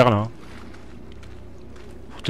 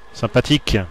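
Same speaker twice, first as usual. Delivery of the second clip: sarcastic; 2 semitones higher, 3 dB louder than usual. Shown as a demonstration. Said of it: "Très sympathique".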